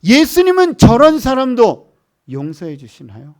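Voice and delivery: high, loud impassioned plea, without real sobs; retold tearful question. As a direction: imitate an overwhelmed woman's astonished asking. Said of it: "막 울기 시작해요".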